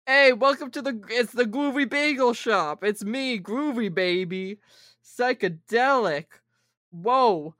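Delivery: slow, hammed-up sixties swinger; Austin Powers impression. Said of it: "our best Austin Powers at a bagel shop".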